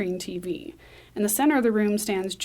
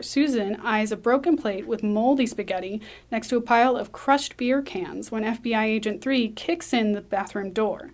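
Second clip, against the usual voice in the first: ordinary talk, nothing marked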